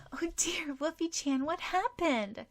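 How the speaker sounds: put-on high, breathy worried girl voice. Sakura finding her injured puppy, high worried voice. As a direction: coo over the hurt puppy in alarm.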